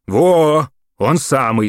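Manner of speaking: high, loud and eager; eager confirmation. A narrator's reading. Gramp confirming to the mayor, high and eager. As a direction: Gramp pleased with himself.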